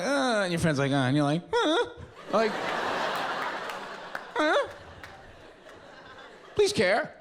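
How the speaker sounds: high, whiny whimpers; crying friend pleading for sympathy; mock whimper.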